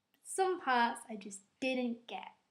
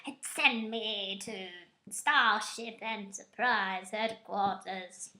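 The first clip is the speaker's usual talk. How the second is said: slow, lightly put-on villain voice; a half-hearted menacing impression; lightly voiced Khan; slower than usual. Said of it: "Doesn't sound like that".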